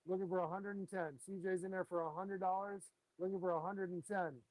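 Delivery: steady auctioneer calling bids; auction bid spotter. Acted. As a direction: call out the bids, auction rhythm. Runs the live fish auction.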